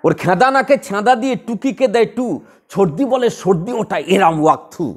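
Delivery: the Nazrul verse again, lilting on the beat; rhythmic recitation. Shown as a demonstration. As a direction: let the rhythm carry every word. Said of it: "ভালো করে দেখ, rhythm এসছে?". (তালে তালে আবৃত্তি)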